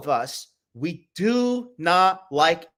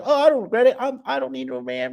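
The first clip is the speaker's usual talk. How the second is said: high mocking falsetto of a woman; mocking girl voice; 10 semitones higher, 4 dB louder, faster than usual. Mocking the women who say they don't regret it, high girly voice.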